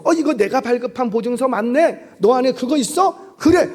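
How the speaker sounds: lively questioning, rising into quick approval; pleased recognition. Acted. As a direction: act out checking and approving eagerly. Acts out God checking the certificate.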